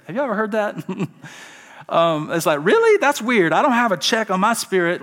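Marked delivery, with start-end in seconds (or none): 2.6-5.0 high-pitched, louder "Really?" easing down; puzzled disbelief. Acted. Baffled listener reacting to church jargon, high and incredulous. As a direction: squeak up in mock bafflement.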